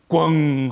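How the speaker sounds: long resonant "bang" noise; imitated crash. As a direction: draw out the giant's thudding fall. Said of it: "하고 넘어지는 거예요".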